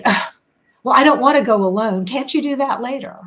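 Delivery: imitated put-upon mother, quick and exasperated; guilt-tripping mother. Mother to child with homework on a school night, imitated guilt-trip. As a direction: mimic a mother pleading, rising high at the end. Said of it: "my mother would make me feel guilty".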